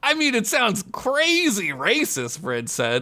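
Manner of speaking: ordinary delivery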